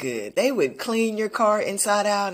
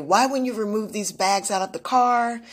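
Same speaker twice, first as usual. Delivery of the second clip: retold yelling; 3 semitones higher than usual. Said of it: "she was yelling at the gentleman".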